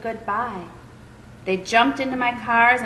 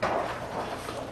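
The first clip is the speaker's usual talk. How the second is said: real breathy laugh; 9 dB quieter than usual. Real, not acted. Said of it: "Sorry, guys".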